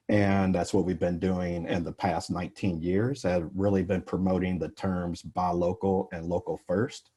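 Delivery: slightly muffled, allergy-stuffed voice; muffled speech. Real, not acted. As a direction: speak a bit muffled, congested from allergies. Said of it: "my speech is a little bit muffled today".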